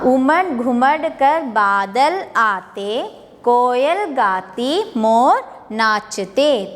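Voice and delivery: slow, lilting reading of the verse; slow poem recitation. Shown as a demonstration. Teacher recites rain poem to children, slow and lilting. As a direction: draw out each phrase like a nursery rhyme.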